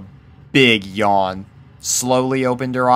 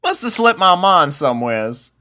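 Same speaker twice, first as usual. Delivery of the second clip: sheepish chuckle; 8 semitones higher than usual. A narrator's reading. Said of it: "chuckled sheepishly".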